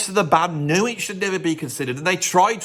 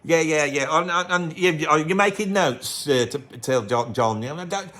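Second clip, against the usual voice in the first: lightly voiced fussy singer, fussing politely; a hint of a chirpy Liverpool band member; impression of a singer; 2 semitones higher than usual. A singer fussing over his partner in the studio, lightly voiced. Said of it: "I'm being a singer".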